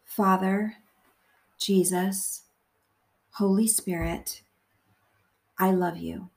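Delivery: measured meditation voice, phrase by phrase; guided prayer. Acted. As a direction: pray gently and deliberately, leaving long pauses to repeat.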